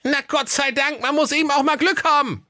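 put-on high boy voice, relieved; relieved lad. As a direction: sigh of relief, young and cheeky. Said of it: "rief der Aladdin".

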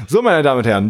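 usual speaking voice

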